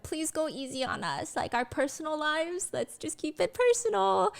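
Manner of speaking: light, rising, coaxing request; sweetly asking a favor; gentle plea. Retold or imitated. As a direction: imitate a polite, careful appeal. Retelling singer's gentle plea to hosts.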